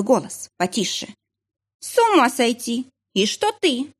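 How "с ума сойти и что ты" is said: shocked gossip. A narrator's reading. Gossiping women on phone.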